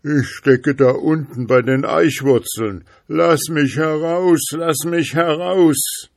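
high, loud, pleading call; trapped spirit's voice. A narrator's reading. Voice from the oak roots answers the schoolboy, high urgent cry. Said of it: "Die Stimme antwortete".

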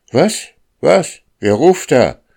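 very high, loud startled questions; baffled cry into the fog; startled shout. A narrator's reading. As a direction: shout up at an unseen caller.

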